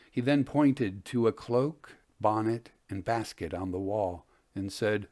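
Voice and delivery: measured storyteller reading aloud; story narration. A narrator's reading. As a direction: read it like an old tale by the fire. Reads a ghost story aloud.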